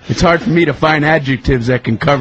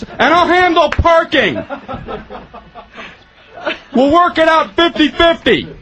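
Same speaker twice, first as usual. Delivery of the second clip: buddy's voice; 13 semitones higher than usual. Retold or imitated. Friend's voice in the parking bit.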